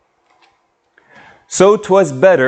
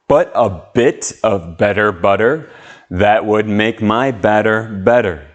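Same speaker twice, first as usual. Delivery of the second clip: slow tongue twister. Shown as a demonstration. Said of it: "nice and slow".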